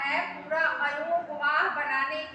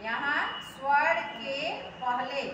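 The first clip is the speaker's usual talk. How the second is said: slow, deliberate; slower than usual. Shown as a demonstration. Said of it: "ठीक है, स्वर से पहले".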